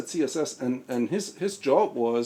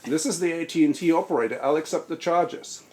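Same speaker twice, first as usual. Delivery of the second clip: lightly voiced slurred American operator; slurring American operator voice; 3 semitones higher than usual. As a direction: slur it like a robotic phone operator. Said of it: "in a nicely American slurring voice".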